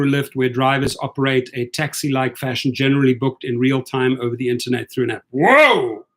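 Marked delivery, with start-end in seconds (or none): 5.3-6.1 surprised whoa. Real, not acted. Reacts to a fast answer.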